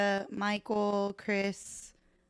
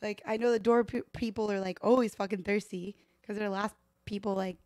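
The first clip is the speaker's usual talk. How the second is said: indignant; 3 semitones higher, 4 dB louder than usual. Retold or imitated. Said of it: "And I was like".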